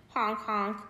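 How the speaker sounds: honk, then guffaw at the hedgehog; laughing gander. Acted. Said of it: "the gander laughed".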